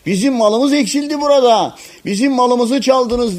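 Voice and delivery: high-pitched narrated accusation, only mildly shouted. A narrator's reading. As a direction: voice the herald calling out thieves. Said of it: "Arkalarından bağırdı, dedi ki".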